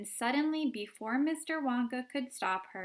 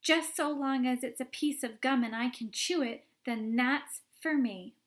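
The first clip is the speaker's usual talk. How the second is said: put-on loud, pushy girl; 3 semitones higher, 5 dB louder than usual. Violet demanding.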